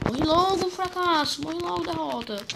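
high, loud frantic yells of morre; yelling at enemy. Real, not acted. Gamer yelling at the monster to die, frantic shout. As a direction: scream at the boss to just die. Yelling at boss mid-fight.

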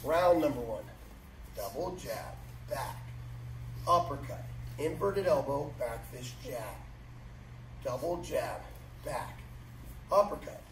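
crisp drill calls, punchy rhythm; boxing coach calling combos. Real, not acted. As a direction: call each strike on the beat.

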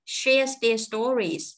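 "Shares their stories" very slow, one measured chunk; phrase then pause. Shown as a demonstration. Teacher chunking for learners, slow phrase stopping after "stories". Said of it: "ngưng một nhịp".

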